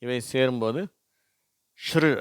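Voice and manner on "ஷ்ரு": ஷ்ரு as one quick blend; blended consonant sound. Shown as a demonstration. Teacher showing how the letters join, blended ஷ்ரு. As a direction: run sh and r together in ஷ்ரு. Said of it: "அப்படின்னு உச்சரிப்பு வருது".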